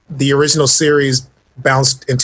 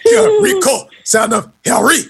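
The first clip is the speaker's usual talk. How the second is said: mock French accent, much higher on "Rico"; hammed-up French accent; 13 semitones higher than usual. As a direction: ham up a French accent on "son of Harry". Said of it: "It sounded French right there".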